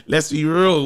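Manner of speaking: amused, laughter breaking into the words; laughing. Real, not acted. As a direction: say it while cracking up. Cracks up at co-host's joke.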